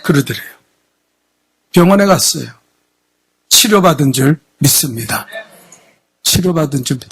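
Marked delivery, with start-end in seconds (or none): 6.2-7.1 softer prompt. Shown as a demonstration. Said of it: "아멘도 못해요?".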